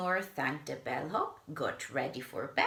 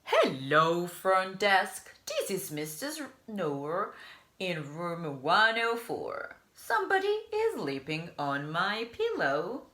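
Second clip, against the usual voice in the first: annoyed guest; 3 semitones higher than usual. Acted. Mister Snore phoning the front desk, annoyed. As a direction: complain down the phone.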